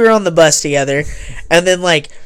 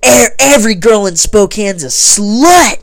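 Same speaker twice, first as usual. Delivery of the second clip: raised, drawn-out mock yell; half-voiced yell, pitched up; retold yelling; 4 semitones higher, slower than usual. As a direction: imitate someone yelling an insult, slowly and higher. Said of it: "yelling, like".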